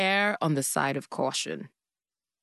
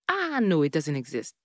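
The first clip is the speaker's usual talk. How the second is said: mock denial. Denying that witchcraft exists, mock dismissal.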